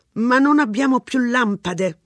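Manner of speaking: grim remark. A narrator's reading. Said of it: "sottolineò torvo mister Ranson".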